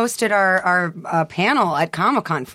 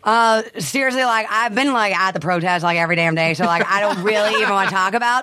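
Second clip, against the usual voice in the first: lightly voiced rambling pop star; a pop singer. Pop star dodging a political question, rambling impression. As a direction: ramble as a pop singer, filler-laden. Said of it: "a pop singer".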